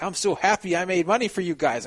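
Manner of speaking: mock delight for the backers; phony cheer. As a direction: say it through a forced smile. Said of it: "like, a phony smile".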